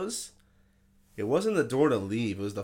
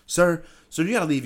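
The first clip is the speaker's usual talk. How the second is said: raised, louder voice ordering someone out; imitating firm manager; 7 semitones higher, 6 dB louder than usual. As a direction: play a manager throwing someone out. Manager ordering homeless man out.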